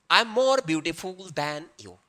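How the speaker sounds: slow, careful full example; slow dictation. Shown as a demonstration. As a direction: dictate the whole sentence slowly. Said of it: "इसको bracket में करते हैं". (पूरा वाक्य धीरे-धीरे)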